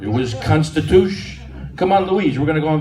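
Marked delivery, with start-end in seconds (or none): 0.0-1.4 Constitution said cut short, ending swallowed; clipped word. Shown as a demonstration. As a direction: drop the end of Constitution like grandpa. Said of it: "Grandpa never finished a word".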